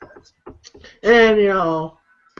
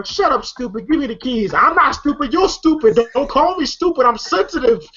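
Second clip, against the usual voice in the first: mock squabble, pitched up; retold bickering; 5 semitones higher than usual. Retelling a squabble over the keys, mock bickering. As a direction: trade insults like film characters. Retold quarrel between film characters.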